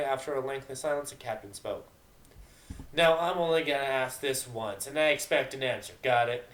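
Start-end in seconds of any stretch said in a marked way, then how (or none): 2.9-6.5 a firm, louder captain's warning; stern voice. Acted. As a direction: lay down the law. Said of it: "he asked in a stern voice".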